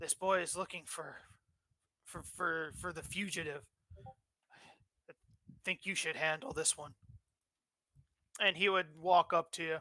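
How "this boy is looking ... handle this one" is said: hushed, soft half-whisper. Acting out a guard reporting a boy looking for the fugitive, guard's half-whisper. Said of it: "the guard whisper".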